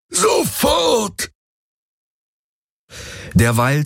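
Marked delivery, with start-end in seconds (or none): 0.1-1.3 high roaring command to his servants; furious shout. Acted. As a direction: bellow the order in rage. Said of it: "brüllte er".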